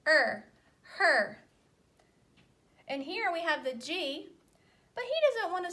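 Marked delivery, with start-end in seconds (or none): 0.1-1.4 "er" then "her" said loudly to show the added H; loud blending demo; sound blending demo. Shown as a demonstration. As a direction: build the word "her" from the sound "er". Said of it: "we can make".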